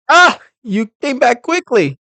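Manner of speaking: big startled cry. Acted. Startled bellboy greets the returning lawyer with a high yelp. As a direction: jump out of your skin and blurt it out.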